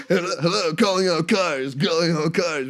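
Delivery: hammed-up villain on a can phone; high, loud mock cop radio call; imitating movie villain. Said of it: "he's like".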